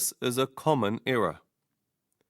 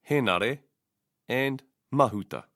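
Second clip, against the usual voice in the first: "Henare" as HE-na-re, "Mahuta" as MA-hu-ta; stress on first vowel. Shown as a demonstration. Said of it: "stress should be on the first vowel".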